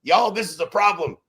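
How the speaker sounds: high, loud mock call for help; mock cry for help. Agents crying out to headquarters, a loud high mock plea. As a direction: yell it up to the rooftops, half-joking. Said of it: "we would scream to the rooftops".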